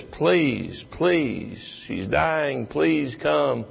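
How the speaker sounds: a touch of desperate begging; earnest plea. Retold or imitated. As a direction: beg Jesus to come and heal. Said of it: "he pleads earnestly".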